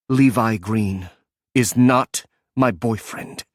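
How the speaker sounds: slow, each word bitten off separately; biting off every word. A narrator's reading. Solo correcting her ex-husband, each word bitten off. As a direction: spell out every word, cold and deliberate. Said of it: "Solo bit off every word".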